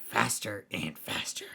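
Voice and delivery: breathy whispered story title. Acted. Host whispering the story's title to listeners. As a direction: hush it out to set the spooky mood.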